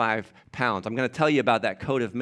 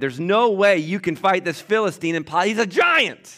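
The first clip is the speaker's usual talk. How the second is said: scoffing king; 7 semitones higher, 5 dB louder than usual. Acted. Saul scoffs at David.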